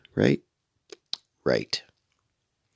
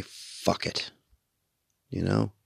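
whispered; 7 dB quieter, slower than usual. Acted. Savouring saying the swear.

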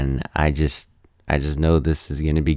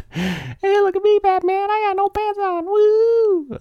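much higher, louder cartoon Batman; goofy Batman voice; 3 dB louder than usual. Batman bragging to everyone, in a squeaky cartoon voice. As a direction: play Batman showing off with no pants on.

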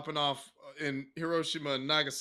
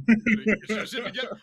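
laughing mock scold; 5 semitones higher, 6 dB louder, much faster than usual. Repeating the wife's line, laughing.

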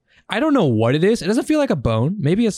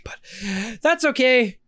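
drawn-out; 9 semitones higher, much slower than usual. Real, not acted. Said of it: "slow far".

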